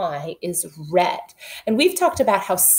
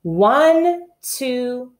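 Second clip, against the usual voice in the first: put-on reading to children; slower than usual. Shown as a demonstration. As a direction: chant the title for kindergarteners. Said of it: "let's read this".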